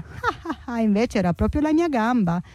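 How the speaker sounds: laughing taunt, high ah ah; tortoise gloating over the fooled jaguar; mock laughter. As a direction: laugh at him, then gloat.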